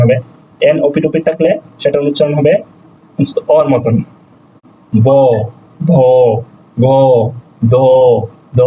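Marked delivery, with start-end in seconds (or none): 4.9-8.6 ব, ভ, গ, দ each said alone with a long pause after; letter drill. Shown as a demonstration. Teacher reciting Russian consonant sounds for learners, letter-by-letter drill. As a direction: sound out ব, ভ, গ, দ one by one. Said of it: "এর উচ্চারণ হবে".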